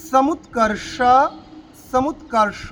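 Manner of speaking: সমুৎকর্ষ with ষ made by curling the tongue right back; retroflex ষ. Shown as a demonstration. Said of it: "মূর্ধন্য ষ, একদম জিভকে উল্টে". (সমুৎকর্ষ-এর ষ জিভ উল্টে মূর্ধন্য উচ্চারণে)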